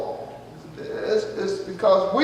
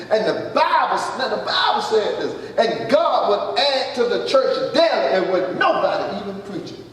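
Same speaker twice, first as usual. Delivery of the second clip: laughing. Real, not acted. Laughing delight at church growing.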